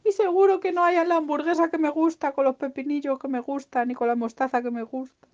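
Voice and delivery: high whine sinking gradually; grumbling, hard-done-by little creature; acted self-pitying lament; very sad piglet. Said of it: "El pobre estaba tristísimo, tristísimo".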